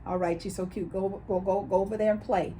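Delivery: an adult showing the gentle tone used with a little niece; playful cooing. Shown as a demonstration. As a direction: coo it out, letting the child off. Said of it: "There's a tone, there's an inflection in our voice".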